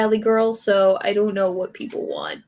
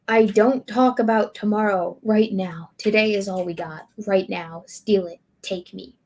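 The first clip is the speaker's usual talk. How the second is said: spoken-word recital, fading at line ends; dramatic lyric reading. Acted. Streamer reading another song's lyrics to viewers, dramatic recital. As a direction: recite the lyrics like an earnest manifesto.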